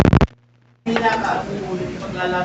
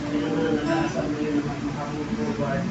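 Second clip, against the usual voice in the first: subdued, steady congregational prayer; settled pastoral praying; earnest prayer; 2 semitones lower than usual. Real, not acted. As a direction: speak to God in a lowered, even voice.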